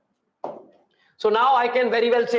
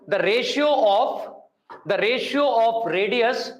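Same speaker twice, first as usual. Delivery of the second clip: dictating. Real, not acted. Dictating after "please write down.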